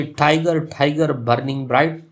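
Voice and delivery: "टाइगर बर्निंग ब्राइट" with strong first syllables and a long ब्राइट; trochaic stress. Shown as a demonstration. Teacher repeating Blake's line, trochaic stress. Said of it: "लंबा पढ़ा और strong पढ़ा".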